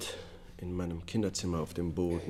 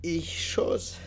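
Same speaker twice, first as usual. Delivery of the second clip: whispered admission; 11 semitones higher than usual. Acted. Confession in court.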